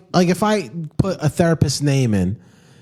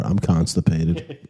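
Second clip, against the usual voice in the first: slow mock line; 9 semitones lower, 3 dB quieter, slower than usual. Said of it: "imagined patient dialogue".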